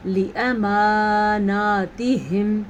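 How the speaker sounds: لاماناتہم with a short a after lam, slow; correct reading. Shown as a demonstration. Teacher answering how to read لاماناتہم. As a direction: recite لاماناتہم without lengthening the alif. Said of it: "تو ہم اس کو کیسے پڑھیں گے".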